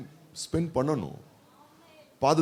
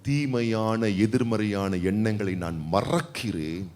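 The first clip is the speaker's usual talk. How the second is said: prayerful confession; 3 semitones lower than usual. Shown as a demonstration. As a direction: lead the church in a gentle confession. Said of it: "எத்தனை பேர் சொல்ல போறீங்க".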